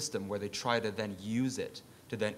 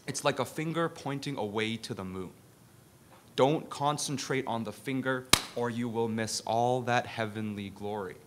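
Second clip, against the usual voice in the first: put-on Bruce Lee accent; 5 dB louder than usual. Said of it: "I do it in the Bruce Lee accent".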